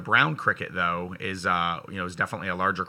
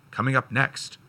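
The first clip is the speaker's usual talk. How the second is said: announcer voice. Shown as a demonstration. Announcer voice again, mocking segment.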